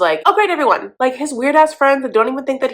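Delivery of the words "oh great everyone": mock sarcastic. Sarcastic quote of arriving friends.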